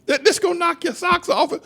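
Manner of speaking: high, punchy hype on THIS; hyped-up announcement. Real, not acted. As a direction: sell the teaser like a showman. Hyping up the clip.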